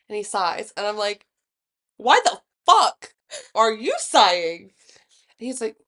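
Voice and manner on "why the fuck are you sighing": loud, slow, exasperated demand; mock outrage, each word drawn out and pushed; irritated retort. Acted quarrel over partner's sigh.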